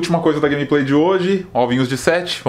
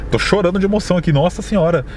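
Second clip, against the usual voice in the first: raised, overacted awe at a rare catch; hammed-up emotion; 4 semitones higher than usual. Gamer hamming it up for viewers, mock overwhelmed. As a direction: ham up the shock for the video. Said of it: "Tô tremendo todo".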